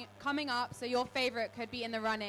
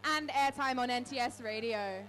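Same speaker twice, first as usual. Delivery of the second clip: stage introduction; 3 semitones higher than usual. Acted. Reads DJ introduction to crowd.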